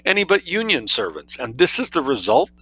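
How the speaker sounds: high, tragic society lady; high-pitched lament over her hair. A narrator's reading. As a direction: wail it like a pampered mistress in despair. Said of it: "exclaimed Sophie tragically".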